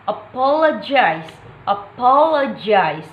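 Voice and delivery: "apologize" main stress on POL, lighter on gize; second and fourth stress. Shown as a demonstration. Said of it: "primary stress on the second syllable".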